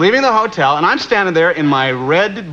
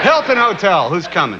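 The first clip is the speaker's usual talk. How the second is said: bellhop call; 4 semitones higher than usual. Retold or imitated. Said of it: "that's what I said".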